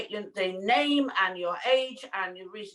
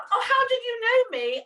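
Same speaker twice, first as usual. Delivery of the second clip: high, laughing retold reply; 11 semitones higher, 4 dB louder than usual. Laughing at the car park attendant who knew her. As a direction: giggle through the question.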